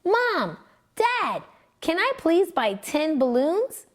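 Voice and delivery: put-on high, hopeful boy pleading; eager asking. A narrator's reading. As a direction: beg his parents with bright eagerness. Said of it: "he asked eagerly".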